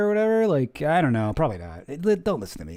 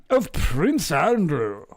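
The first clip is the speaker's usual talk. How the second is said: mock royal announcement; much slower than usual. Reading statement in mock voice.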